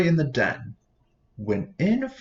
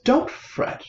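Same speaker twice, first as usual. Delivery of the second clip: squeaky mouse voice; 3 semitones higher than usual. Acted. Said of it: "Mouse squeaks".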